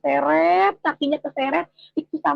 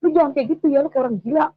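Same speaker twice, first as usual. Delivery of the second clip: retold irritated telling-off with raised volume; mild angry scolding; 4 dB louder, faster than usual. Embarrassed husband scolds wife on the motorbike, mildly angry. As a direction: imitate an annoyed husband, a little louder. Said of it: "Dia marah-marah di motor".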